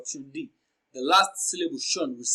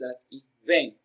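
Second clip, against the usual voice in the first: invent split, with weight on "vent"; stress on VENT; 3 semitones lower, slower than usual. Shown as a demonstration. Teacher breaking invent down for learners, stress on VENT. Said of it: "Vent receives the stress".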